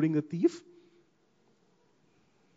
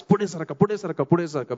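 conductor's yell; 3 semitones higher, 5 dB louder, much faster than usual. Retold or imitated. Preacher imitates a Bombay bus conductor yelling at passengers, loud call. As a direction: belt it out like a bus conductor packing the aisle. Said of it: "he yells at the top of his voice".

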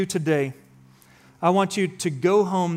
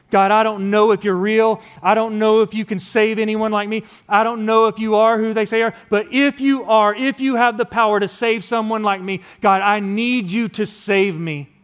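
raised, pleading prayer, louder and higher; desperate plea to God, voice lifted; crying out to God; 4 semitones higher, 5 dB louder than usual. Retold or imitated. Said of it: "I just remember crying out".

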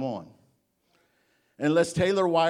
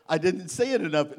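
ordinary delivery

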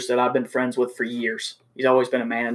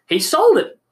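sharp, loud, much higher angry yell; angry shout; 13 semitones higher, 6 dB louder, slower than usual. Retold or imitated. Salesman yelling at the used car manager, angry shout. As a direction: shout the accusation across the sales desk. Retold blow-up at the dealership.

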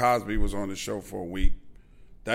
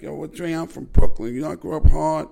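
high, loud lisping Tyson voice; Mike Tyson impression; 6 semitones higher, 8 dB louder than usual. Retelling Tyson's interview answer to Dre, high lisping impression. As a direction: pitch up and play the Brooklyn tough. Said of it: "And Mike is like".

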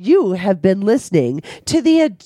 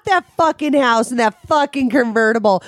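fast, high and worked up; excited rant; 5 semitones higher, faster than usual. Real, not acted. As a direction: rattle it off, outraged and amused. Mocking Barbie rant.

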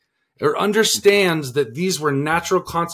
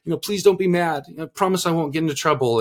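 put-on pleading child; 5 semitones higher, faster than usual. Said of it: "So she said".

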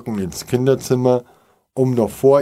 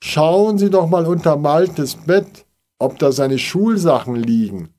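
urgent calling; 6 semitones higher, 4 dB louder than usual. A narrator's reading.

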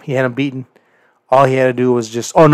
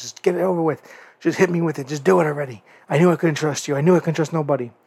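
higher, resigned taunt; bitter resignation; 4 semitones higher, faster than usual. Retold or imitated. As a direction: give up and dare him, bitterly. MJF daring him to hit.

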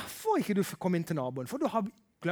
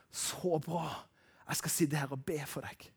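calm reply; 3 semitones lower, 7 dB quieter than usual. Acted. Acting the prayer type replying.

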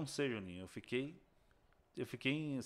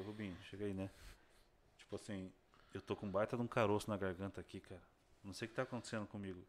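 strange voice; 4 semitones lower, 9 dB quieter than usual. Retold or imitated. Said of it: "Com a voz bem, bem esquisita".

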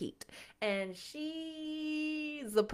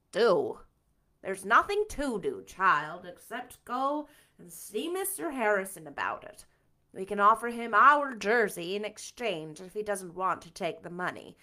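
stern Marilla; 2 semitones lower, 5 dB louder than usual. Acted. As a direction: lay it down firmly. Marilla firm and practical.

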